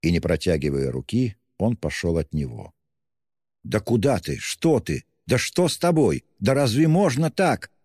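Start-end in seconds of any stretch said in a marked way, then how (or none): 3.7-7.7 rising, higher, lost and bewildered; bewildered pleading. A narrator's reading. Bewildered friend pleading with Raskolnikov, rising high. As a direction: pitch climbing with confusion. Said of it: "бормотал совсем потерявшийся Разумихин".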